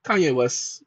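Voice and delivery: deep late-night host voice; deep host persona. Acted. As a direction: apologize to the ladies and gentlemen in a deep, cool voice. Host persona explains again.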